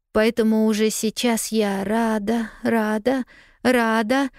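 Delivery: lightly voiced little girl, bravely cheerful through worry; a girl talking herself into being glad; girl character voice. A narrator's reading. Lost girl to herself, forced cheerful girlish voice. Pollyanna's voice in narration.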